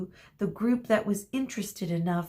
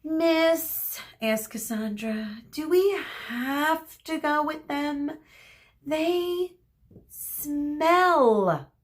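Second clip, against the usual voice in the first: put-on whiny child; 9 semitones higher, 3 dB louder, slower than usual. A narrator's reading. Whiny child asking teacher.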